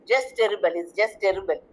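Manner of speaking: "just" given the main weight of each phrase; stress on just. Shown as a demonstration. Teacher shows the class the emphasis, stress on "just". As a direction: press on "just" in both phrases. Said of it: "Just is the adverb of emphasis here".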